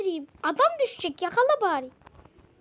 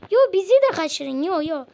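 calling out; 8 dB louder than usual. Real, not acted. Calling to aliens.

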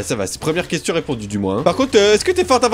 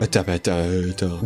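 tense hush; 13 semitones lower, 5 dB quieter than usual. Real, not acted. Gamer tense mid-fight.

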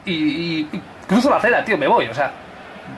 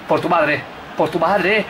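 ordinary talk, nothing marked

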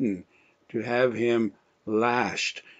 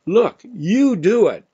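higher, louder, slower push back; exasperated Pilate; 9 semitones higher, 6 dB louder than usual. Retold or imitated. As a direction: shove the blame onto the crowd. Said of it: "And he says".

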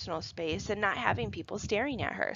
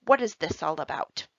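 1 stern teacher; 4 semitones lower than usual. A narrator's reading. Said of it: "pinched lip, stern look".

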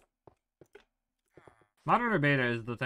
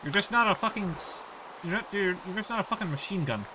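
high excited rant; 8 semitones higher, 3 dB louder than usual. Real, not acted. Mocking the old boat.

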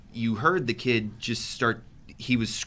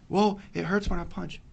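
put-on kid voice; 7 semitones higher, 4 dB quieter than usual. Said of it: "He's like".

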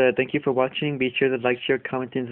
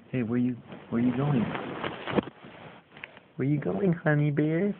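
sing-song pet voice for the little dog; puppy talk; 4 semitones higher than usual. Real, not acted. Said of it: "you love all this little puppy talk".

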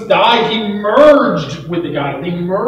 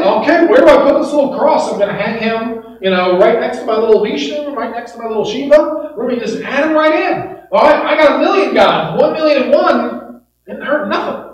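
higher-pitched, easygoing acted chatter; lightly voiced casual worshipper; 4 semitones higher than usual. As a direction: imitate someone casually making room. Acts out Hindu adding Jesus to gods.

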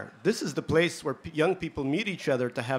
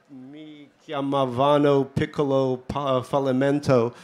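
put-on slow, hammy Italian accent. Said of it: "Do you like my Italian accent?".

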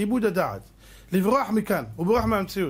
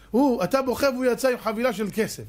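laughing mockery; 6 semitones higher than usual. Real, not acted. Scolding a crying moviegoer.

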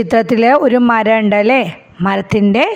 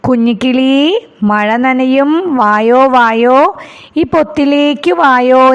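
parrot calling; slower than usual. Acted. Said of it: "തത്ത ... എന്താ പറയണേ നോക്കൂ".

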